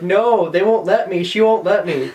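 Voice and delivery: high, drawn-out mock protest; retold freak-out. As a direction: imitate a drunken panicked wail. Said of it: "I was, like, freaking out".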